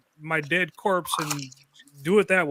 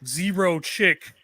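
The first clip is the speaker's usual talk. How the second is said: a lightly voiced evil doer; hammed-up threatening villain; 2 semitones lower, 7 dB louder than usual. A touch of villain taunting his rival, louder. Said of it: "this evil doer type".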